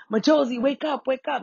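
high-pitched call to wake her; calling at the window. Retold or imitated. Man at the bedroom window calling her, high. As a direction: sing her name up high through the glass.

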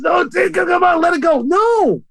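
high, acted family nagging; mock pleading. Family urging a victim to let go, high and insistent.

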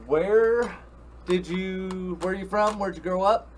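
high, eager interviewer; excited. Acted. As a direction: pump up the first question. Host opening interview questions.

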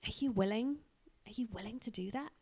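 gently rising, tender questions to a son; loving father. Acted. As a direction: ask lovingly, with a light upward lilt. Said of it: "God looks at Jesus so lovingly".

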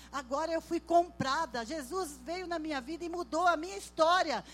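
loud, high, impassioned sermon delivery; full-force preaching. Acted. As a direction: proclaim it to the congregation, building to a cry.

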